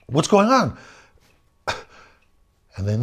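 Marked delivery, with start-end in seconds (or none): 0.1-0.8 high, loud worried calling out; alarmed shout. Retold or imitated. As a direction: call out to them, much higher and louder. Calling out to fleeing friends.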